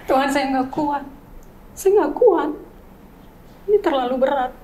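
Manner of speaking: pleading to God as the tears come back; tearful prayer. Real, not acted. Mother reliving her prayer, tearful and pleading. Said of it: "Aduh, nangis lagi".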